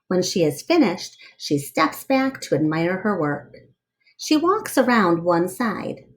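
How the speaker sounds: lively read-aloud storyteller voice; story narration. Acted. Reading a picture book aloud to children, lively storyteller voice.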